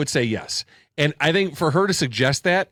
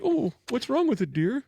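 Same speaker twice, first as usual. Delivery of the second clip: creepy voice; 9 semitones higher, 4 dB quieter than usual. Retold or imitated. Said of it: "And I was like".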